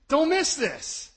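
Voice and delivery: loud and slow, each word pressed; slow urgent plea. Real, not acted. Preacher repeating his warning to the congregation, slow and loud. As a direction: drag it out so they feel it.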